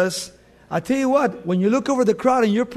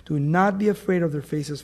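"Do not be afraid of their faces" said lower, gently, like a comfort; tender; 3 semitones lower than usual. Shown as a demonstration. Preacher comforting his congregation with scripture, tender and hushed. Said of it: "Look how beautiful this is".

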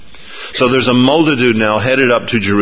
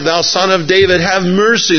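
crying out; 6 semitones higher than usual. Retold or imitated. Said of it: "And they're crying out".

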